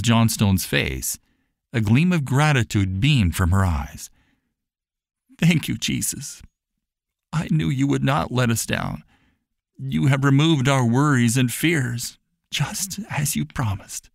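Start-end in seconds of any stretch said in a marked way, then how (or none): 5.4-14.1 tearful thanks. Acted. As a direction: whisper thanks to Jesus through tears. Mama in tears of gratitude.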